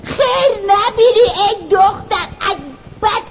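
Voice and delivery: tearful curse. Acted. Old woman curses the girl, now close to tears. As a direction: let the curse break into a wail.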